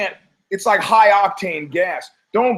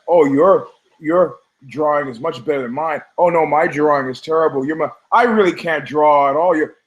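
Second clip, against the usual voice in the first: mock modest kids. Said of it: "And they were like".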